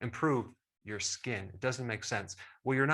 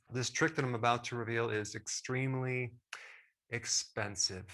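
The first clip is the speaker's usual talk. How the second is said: mildly sarcastic, pause before the last word. Real, not acted. Host teases viewers about the cost of his trick, sarcastic. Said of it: "I'm just being very sarcastic".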